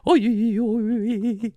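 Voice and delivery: high, loud mock shout; mock call out. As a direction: yell out in a squeaky cartoon voice.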